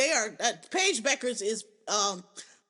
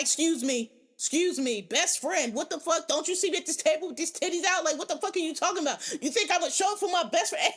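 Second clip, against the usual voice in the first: mock outraged friend; 4 semitones higher than usual. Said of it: "A Z been like".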